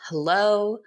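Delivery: a sweet, slow hello to the house; sweet greeting. Retold or imitated. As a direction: greet the portrait gently, drawing out the name. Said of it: "and she's so sweet".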